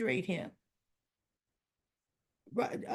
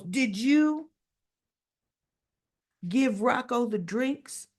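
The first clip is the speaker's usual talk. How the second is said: louder, pointed demand, slowing on the end; accusing question; 3 semitones higher, 4 dB louder, slower than usual. Retold or imitated. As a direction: grill him like a suspicious father. Father confronts Gio about drinks.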